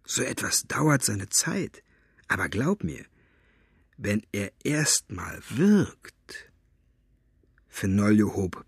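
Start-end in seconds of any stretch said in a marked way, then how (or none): 0.0-6.5 ominous hush. Acted. Ominous hint.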